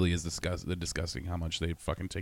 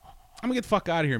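high, chirpy quitting line; high breezy exit line; cheerful announcement; 10 semitones higher, 4 dB louder, faster than usual. Retold or imitated. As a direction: announce it brightly. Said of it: "I'm just like".

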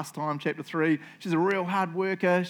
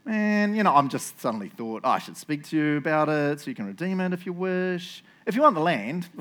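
casual afterthought; who-cares nonchalance. Shown as a demonstration. Boaz offers the redeemer the land, nonchalant. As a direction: toss it out as if it just occurred to you. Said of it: "I'll read it in the who really cares way".

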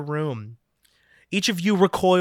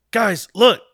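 louder call to look; 5 semitones higher, 7 dB louder than usual. Acted. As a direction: call it out to the others. Gareth points and calls out.

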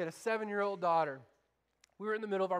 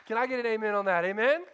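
louder, rousing call to the room; calling for an amen; 6 dB louder, faster than usual. Real, not acted. Pastor rousing the congregation to answer, loud call. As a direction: pull an amen out of the crowd.

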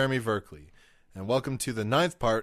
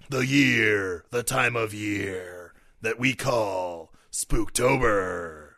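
slow, booming announcer hype; monster truck voice; 3 semitones lower, much slower than usual. Acted. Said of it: "doing the monster truck voice for Spooktober".

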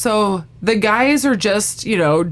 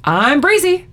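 breezy; 3 semitones higher than usual. Retold or imitated. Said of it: "and I was breezy".

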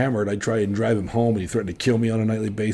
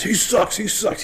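put-on much higher, whining drunk; high whiny complaint; 11 semitones higher than usual. Drunk bartender griping about the new kid, high whine. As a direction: whine it like a sulking old drunk. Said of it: "He goes".

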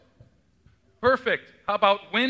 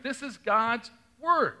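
slow, emphatic "This is God's Word"; literalist voice; 5 semitones higher, slower than usual. Retold or imitated. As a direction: say it like it settles everything. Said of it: "take it as very literal".

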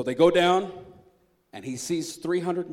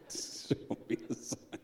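whispered repeat; 5 dB quieter, slower than usual. Shown as a demonstration. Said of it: "God, can you show me a sign".

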